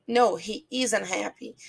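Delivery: "No" set apart, then a measured "he isn't happy"; slow down on "isn't", keeping it understated; varied intonation. Shown as a demonstration. Teacher shows intonation to students, "No, he isn't happy" evenly measured. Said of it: "depende muito da entonação".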